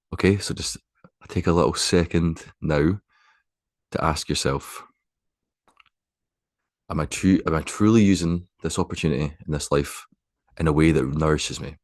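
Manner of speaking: unhurried, spacious guidance, letting each phrase settle; guided meditation. Acted. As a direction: guide them gently into stillness, phrase by phrase. Resumes guiding the meditation.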